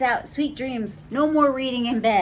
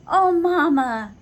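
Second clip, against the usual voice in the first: giggling; 7 semitones higher, 7 dB louder than usual. A narrator's reading. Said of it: "they giggle".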